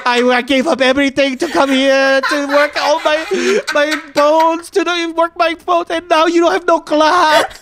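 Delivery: high-pitched wailing sob story; mock-tearful mother. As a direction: wail like a martyred mother, far above your own pitch.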